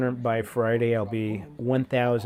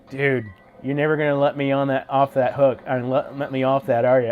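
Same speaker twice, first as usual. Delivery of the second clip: loud laughing protest; playful protest; 7 dB louder than usual. Real, not acted. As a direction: protest like you're caught out. Teased by a viewer.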